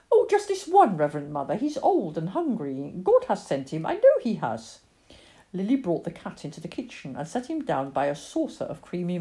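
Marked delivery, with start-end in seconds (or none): 0.1-4.8 put-on pleading child. Lily begs her mother for just this one, earnest pleading.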